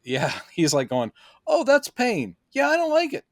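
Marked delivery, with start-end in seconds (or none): 1.5-3.2 high, whiny mock Clark. Mocking Clark's first taste of pain, high and whiny. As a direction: whimper it like a baby feeling pain.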